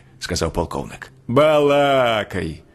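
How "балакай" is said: rising scorn, each line higher; old ferryman mocking retreating troops, rising scorn; scornful scolding. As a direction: scold the soldiers with mounting contempt. Old man scolding retreating soldiers.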